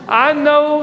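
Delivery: put-on angry older brother. Older brother scolding young shepherd, mock anger. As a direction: imitate an irritated accusation. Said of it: "Eliab's anger was kindled against David".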